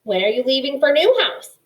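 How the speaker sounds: put-on gruff old porcupine asking; Earth asking. A narrator's reading. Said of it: "Earth asked Poppy".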